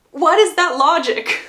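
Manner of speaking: loud incredulous laugh through the words; cracking up at the absurd logic; laughing disbelief. Real, not acted.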